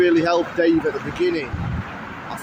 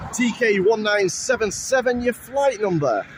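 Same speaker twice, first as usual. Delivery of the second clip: bingo caller; 5 semitones higher than usual. Real, not acted. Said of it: "I sounded then like a bingo caller".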